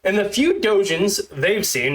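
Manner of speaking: stiff, awkward script reading; stilted robot reading. Shown as a demonstration. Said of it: "if it sounds like I'm a stilted robot".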